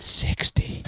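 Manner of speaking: whispered deadpan. Retold or imitated. Deadpan reply to customer.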